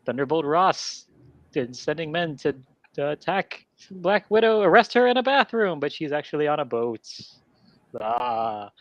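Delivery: a lightly voiced Dracula telling the plot; Dracula accent. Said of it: "hold on to that accent".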